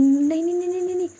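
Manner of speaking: high, rushed string of no; urgent refusal. Acted. Roohi refusing to let Nidhi slip away, high and rushed. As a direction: plead her to stay, pitch climbing.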